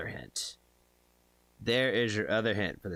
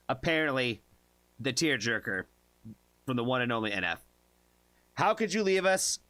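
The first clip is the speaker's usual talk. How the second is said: video intro. Acted.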